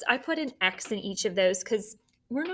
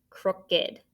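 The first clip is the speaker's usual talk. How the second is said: whispered word. Shown as a demonstration. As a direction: breathe out "Crooked" without voice. Teacher whispers word to herself.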